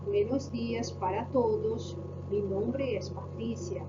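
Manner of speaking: slow, measured and formal self-introduction; formal greeting. Shown as a demonstration. Teacher demonstrating a formal Spanish greeting, slow and formal. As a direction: introduce yourself politely, slowly, to strangers. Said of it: "na primeira eu fui um pouco mais formal".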